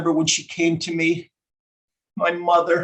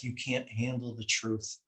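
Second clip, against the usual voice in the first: much softer, low mumble; mumbled under breath; 8 semitones lower, 14 dB quieter than usual. Retold or imitated. Doctor breaking bad news to a father, mumbled under her breath. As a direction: mumble it under your breath, barely audible. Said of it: "I heard her mumble under her breath".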